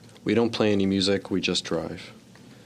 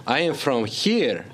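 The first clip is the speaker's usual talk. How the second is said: mock shout; 6 semitones higher, slower than usual. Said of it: "I shouted".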